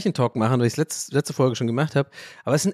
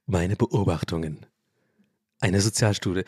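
slow, lower, self-important book title; mock solemn title; 6 semitones lower than usual. Host pitches his imagined couple-watching book, mock grand. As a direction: announce it like a pompous author. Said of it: "komisches Bit".

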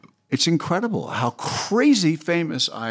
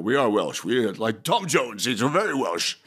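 put-on Welsh accent; 2 semitones lower than usual.

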